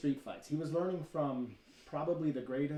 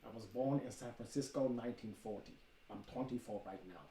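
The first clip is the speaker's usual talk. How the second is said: Bruce Lee screen test; 5 dB quieter than usual. Retold or imitated. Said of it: "I will quote him verbatim".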